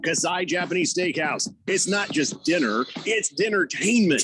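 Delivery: radio commercial voice, a little gruff; ad read. Acted. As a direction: read it like a restaurant spot. Reading a radio ad.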